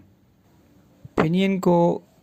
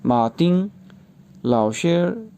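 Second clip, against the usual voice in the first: reading dialogue in Chinese. Shown as a demonstration. Teacher reading the whole Chinese dialogue aloud for pronunciation practice. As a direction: read the Chinese lines for them to hear. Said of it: "मैं इसको Chinese में ही pronounce करूँगा".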